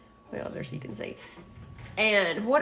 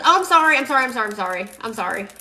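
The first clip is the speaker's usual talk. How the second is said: flustered apology; 2 semitones higher, 7 dB louder, faster than usual. Real, not acted. Corrected by a viewer about the glitter shop, flustered loud apology. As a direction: blurt it out, caught in a mistake.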